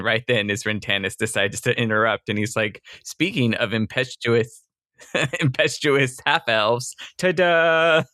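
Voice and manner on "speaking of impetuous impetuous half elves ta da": laughing through it. Retold or imitated. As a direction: crack up while announcing yourself. Tannis bursts in, teller laughing.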